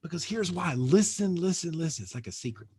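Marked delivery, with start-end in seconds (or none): 2.0-2.7 secretive whisper. Real, not acted. Coach to students on a call, whispering a secret. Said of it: "I don't know why I'm whispering".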